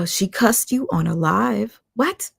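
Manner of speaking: high, slow disbelieving question; can't believe what she's reading; shocked disbelief. Real, not acted.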